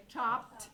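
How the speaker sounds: "Chopped" as a single syllable ending in pt; one syllable. Shown as a demonstration. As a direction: say "Chopped" with a silent E. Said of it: "That's only one syllable".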